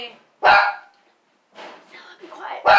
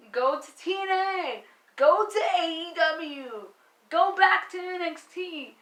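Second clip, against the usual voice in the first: exasperated plea; 4 semitones higher than usual. Real, not acted. Fan begging Bayley to leave for another company, exasperated plea. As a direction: urge her to go, building in frustration.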